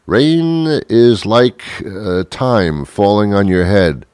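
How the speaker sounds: very slow mock-wise musing; slow, dreamy mock philosophy; mock profound spouse. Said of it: "your spouse walking around saying".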